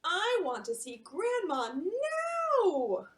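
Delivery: slow, loud breathy cry; Yumi's slow, high pleading; urgent whisper-shout. Acted. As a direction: pour out the longing. Voicing Yumi's urgent wish.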